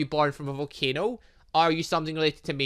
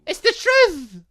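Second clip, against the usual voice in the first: indignant cry; 9 dB louder, slower than usual. Real, not acted. Arguing with the boss.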